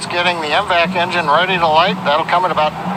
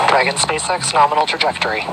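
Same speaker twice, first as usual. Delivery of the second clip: crackly mission control radio callout; distant radio voice cutting in and out; breaking up space radio; 2 semitones lower than usual. Real, not acted.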